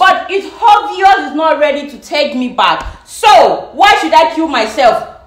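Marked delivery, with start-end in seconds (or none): 0.0-1.3 heated shout. Real, not acted. Shouting in argument.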